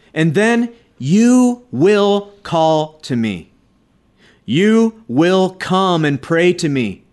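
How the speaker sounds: slow, solemn reading of the Lord's words; preacher reading God's promise slowly; scripture reading. Acted. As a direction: let each promise land slowly. Reads God's words from Jeremiah.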